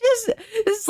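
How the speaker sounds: high crying laugh. Real, not acted. Cracking up to viewers over the story. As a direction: break into laughter on the words.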